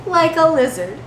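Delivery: high, teasing, laughing rebuke; amused elf barmaid. Acted. Lily gently mocks the lizard pretending to be human. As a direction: tease him about his spikes.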